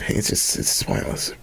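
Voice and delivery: soft whispered aside; whispering. Real, not acted. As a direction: breathe it out unvoiced. Aside to himself.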